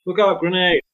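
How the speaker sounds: high, urgent soldier shout; battle callout. Shown as a demonstration. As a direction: yell a grenade warning. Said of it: "pop out short battle type lines".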